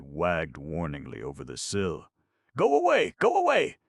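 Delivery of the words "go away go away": very high, loud quavering cry; frightened old man. Acted. Old man at window warning peddlers off, frightened quaver. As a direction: shoo them off in panic. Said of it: "quavered an old man in a frightened voice".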